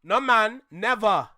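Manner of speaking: emphatic Caribbean "Nah, man, never"; low, firm Caribbean correction; proper Caribbean accent. Shown as a demonstration. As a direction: teach the Caribbean way, landing hard on "man". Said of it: "a rapper never said it right".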